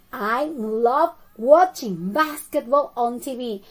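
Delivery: slow, measured example for learners; slow model sentence. Shown as a demonstration. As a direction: model the answer slowly for the class. Teacher gives the full answer.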